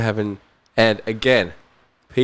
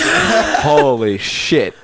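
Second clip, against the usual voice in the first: laughing holy shit; much slower than usual. Real, not acted. Realises it is his hero.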